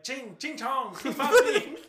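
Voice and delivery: high, loud mocking imitation of the car sound; mocking accent sound. Podcaster imitating the Japanese car's exhaust, high and loud. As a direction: squeal it out high and loud through laughter. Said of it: "and it's like".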